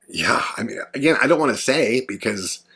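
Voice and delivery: whispered hesitation; hushed aside. Real, not acted. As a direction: drop to a whisper, unsure. Hesitant aside about dangerous names.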